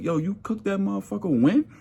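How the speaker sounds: high disbelieving question; a coworker horrified by old food; disbelief. Retold or imitated. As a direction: ask it up high, appalled. Disbelief at leftovers.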